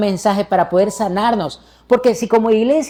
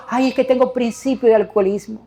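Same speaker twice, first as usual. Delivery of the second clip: mock whining; 2 semitones higher than usual. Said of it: "Uno no puede quedarse llorando".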